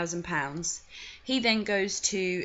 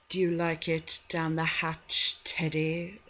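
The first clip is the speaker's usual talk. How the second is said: suggestive old lord, lightly voiced; a hint of a leering aristocrat teasing; insinuating, lingering sleazy lord; creepy Boothby. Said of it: "I have to do his voice".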